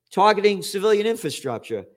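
mocking repeat of a hypocritical claim; scornful echo. Scornfully echoing the headline phrase.

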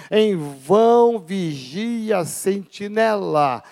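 slow, solemn reading of the psalm; scripture reading. Acted. Pastor reads the psalm to his congregation, solemn and slow. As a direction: lay each verse down with weight.

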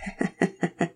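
quiet chuckle to himself; a small private laugh, barely voiced; soft chuckle. A narrator's reading. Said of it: "Todd chuckled to himself".

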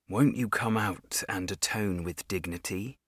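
soft, otherworldly possessed voice. Acted. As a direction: speak like a puppet of a vengeful ghost. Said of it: "but it wasn't me speaking".

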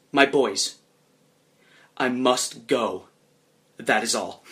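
restrained mock proclamation, starting loud; half-hearted yell to the troops, slowing down. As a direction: announce it grandly with long pauses. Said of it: "at the top of your lungs".

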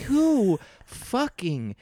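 high, slow, exasperated outburst; angry. Real, not acted. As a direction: drag it out in real annoyance. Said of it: "I'm getting angry".

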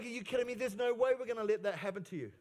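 incredulous Peter. Retold or imitated. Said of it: "This is the Adam International version".

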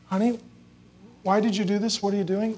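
lifted, softened parental question; gentle questioning mother. Retold or imitated. Mom who got her heart right asking her child, gentle. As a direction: ask tenderly, without accusing. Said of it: "She got her heart right".

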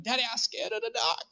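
lightly voiced three-year-old whine; a hint of a toddler's put-on accent; little son's accent. Three-year-old son at bedtime to his dad, lightly mimicked. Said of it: "Where did you get that accent?".

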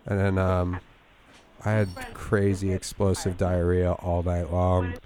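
fake sick voice. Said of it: "my fake sick voice".

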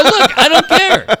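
loud, high, drawn-out exasperation; worked-up mock outburst; retold heated dismissal.

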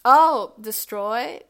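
slow, loud proud announcement; drawn out and loud, proud of the choice; proud declaration. Real, not acted. Proudly naming her game ending.

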